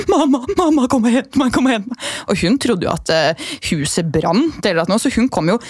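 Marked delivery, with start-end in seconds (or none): 0.1-2.1 put-on higher, pleading child calling mum; lightly voiced helpless child; whiny call for mum. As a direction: beg mum to come get you. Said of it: "og så var jeg bare sånn".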